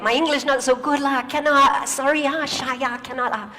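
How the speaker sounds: playful Malaysian English impression; Malaysian accent. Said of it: "bad English speaker".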